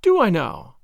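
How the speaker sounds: light, mildly gay comeback; a touch of teasing gaiety; gay retort. Acted. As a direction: toss it back playfully. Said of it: "she retorted gaily".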